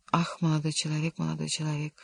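a hushed, ominous objection. A narrator's reading. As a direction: let it drop away, quiet and foreboding. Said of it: "зловещим голосом возразил слуга".

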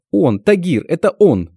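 high, loud, slow horrified cry; terrified cry. Acted. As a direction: cry out in terror at the man. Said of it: "кричит она".

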